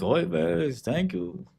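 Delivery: put-on high sing-song Yiddish accent. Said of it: "Jewish people are like".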